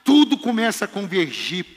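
high loud preaching burst; preaching shout. Acted. Preacher exclaiming to the congregation, loud high shout. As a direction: lift it into a shout.

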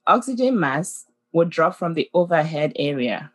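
calm, measured safety announcement; flight attendant. Acted. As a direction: read it like cabin crew over the intercom. We have heard this announcement.

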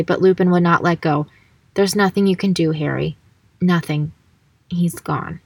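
even, measured book reading; story narration. A narrator's reading. Reading the duel scene aloud, story narration. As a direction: read the passage aloud steadily.

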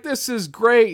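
high-pitched delighted exclamation; lightly hammed-up delight; Tom Atkins impression. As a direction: imitate an enthusiastic old pal. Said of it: "inflection is so spot on for him".

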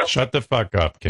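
repeating the words through a laugh; amused chuckle on the words. Real, not acted. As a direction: laugh it out while echoing the insult. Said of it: "Why is he laughing?".

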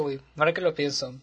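talking away from the microphone; far from mic. Real, not acted. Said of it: "Estoy muy lejos del micrófono".

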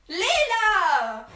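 high laughing call; laughing shout. Real, not acted. Calling out the name laughing.

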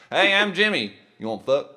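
hammed-up trailer-park spy introduction; trailer park James Bond. Trailer park Bond propositioning someone, crude and hammed-up. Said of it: "like a trailer park James Bond".

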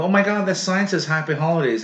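put-on petty grievance; mock complaint. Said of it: "write in and complain".

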